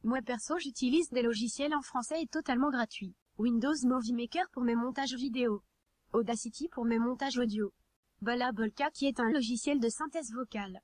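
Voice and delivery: even, machine-read text to speech narration; synthetic text to speech voice. Real, not acted. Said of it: "comme je le fais actuellement".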